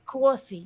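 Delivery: "coffee" with a slow, long aw; drawn-out aw. Shown as a demonstration. Teaching the learner "coffee" with a long aw. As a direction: stretch "coffee" into "kwaw-fee". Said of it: "a aw sound like A U".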